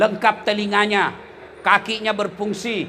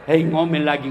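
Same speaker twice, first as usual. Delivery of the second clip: much lower, softer weary grumble; grumbling husband; 10 semitones lower, 4 dB quieter than usual. Retold or imitated. Husband on his motorbike dreads his wife's nagging, a low weary grumble. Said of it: "tiba-tiba dia bayangkan".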